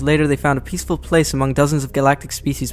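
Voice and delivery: fast, dramatic trailer narration; trailer voiceover. Pretend. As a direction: read it like a movie trailer in one breath. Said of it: "I got it all".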